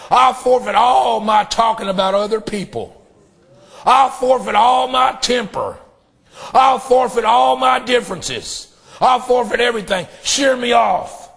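preached prayer with rising force; pleading prayer of surrender; fervent prayer. Acted. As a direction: plead it out to Christ.

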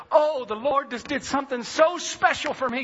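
retold outburst of grateful excitement; overjoyed. Husband tells his wife what the Lord did, overjoyed.

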